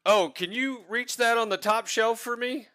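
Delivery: bright teasing ask; mock sweet request. Dwarf joke delivered on stage.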